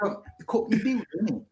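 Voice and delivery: Cockney builder. Retold or imitated. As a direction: play up the Cockney accent. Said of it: "there's an excellent".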